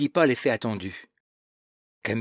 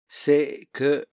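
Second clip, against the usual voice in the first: tentative, slightly lifted start; timid; 4 semitones higher, 4 dB louder than usual. A narrator's reading. Camille hesitantly explains herself to her cousin, timid. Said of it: "reprit-elle timidement".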